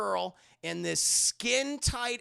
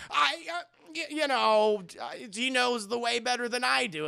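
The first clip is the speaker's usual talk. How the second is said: mock flustered; 4 semitones higher than usual. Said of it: "Commissioner Gordon starts blushing".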